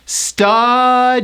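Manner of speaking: Studying broken into stu-dy-YING; slow, separate beats in Studying, strong Y; Studying, each syllable held; three syllables. Shown as a demonstration. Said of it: "it's three syllables".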